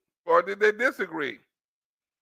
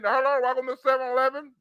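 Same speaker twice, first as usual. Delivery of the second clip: mock Indian accent, slightly raised pitch; imitated Indian accent; 3 semitones higher, faster than usual. Mocking Biden's remark about seven eleven, imitated Indian accent. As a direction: put on an Indian shopkeeper's accent. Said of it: "you gotta have an Indian accent".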